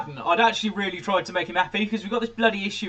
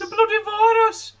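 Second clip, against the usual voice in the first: very high, squeaky mock Brummie; hammed-up Brummie falsetto; terrible Birmingham accent. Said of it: "that was a terrible Birmingham accent".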